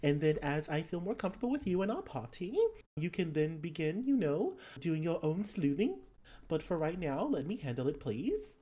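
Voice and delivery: put-on Australian-accented scolding with swooping pitch; player's character, scolding. Character to companion after near arrest, scolding. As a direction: tell them off in a lilting Australian accent.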